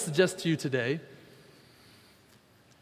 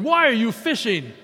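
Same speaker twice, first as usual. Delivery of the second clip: a touch of a stern rebuke, louder; mock scolding; 4 semitones higher, 5 dB louder than usual. Imagined Jesus scolding Peter for going back to fishing, mildly stern. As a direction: pretend to chew Peter out for fishing. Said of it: "He's not going".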